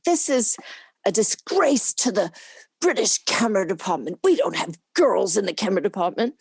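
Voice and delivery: retold outrage. Boss objecting to women in the camera department, mock outrage. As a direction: act out a scandalised department boss. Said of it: "went crazy. He said".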